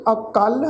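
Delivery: ਅਕਲ as a-kall, second syllable held; correct pronunciation. Shown as a demonstration. Teacher repeats the right reading for congregation, ਅਕਲ as a-kall. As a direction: say ਅਕਲ with a light a, weight on kall. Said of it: "ਤੋ ਪਾਠ ਉਚਾਰਨ ਕਰਾਂਗੇ".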